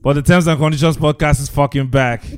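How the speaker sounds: ringmaster. Pretend. Podcast intro, showman announcement.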